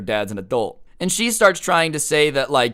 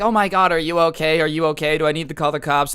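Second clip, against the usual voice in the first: higher-pitched imitated concern; worried mom; 3 semitones higher, 3 dB louder than usual. Mom checking on her son after the fight, worried. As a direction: fuss over him with mild alarm.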